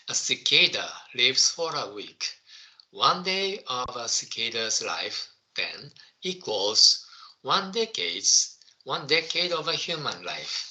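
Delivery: slowly, word by word, for the class; slow school dictation. Shown as a demonstration. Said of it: "Okay, I will read it again".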